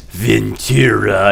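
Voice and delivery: slow, drawn-out demon voice on "Ventura"; a hint of a demon calling slowly; demonic voice. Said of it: "the demonic voice was like".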